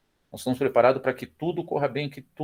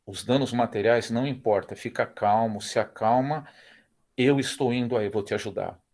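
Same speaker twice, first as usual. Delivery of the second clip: calm reassuring father. Retold or imitated. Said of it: "Eu falei".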